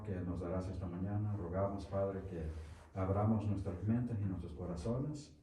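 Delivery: hushed, earnest prayer to the Father. Acted. Pastor praying with the congregation before the lesson, hushed.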